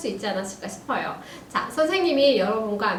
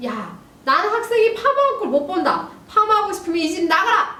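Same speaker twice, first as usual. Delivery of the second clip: higher, raised stern ultimatum; angry father; 7 semitones higher, 4 dB louder than usual. Acted. Dad orders daughter out of the house. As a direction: lay down the law, hammed up. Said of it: "그러자 아빠".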